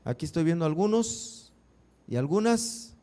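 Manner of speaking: normal talking voice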